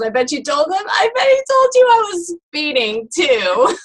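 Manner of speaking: high-pitched punchline of feigned outrage; mock indignation. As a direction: build to an incredulous, accusing finish. Punchline, woman turns accusation on officer.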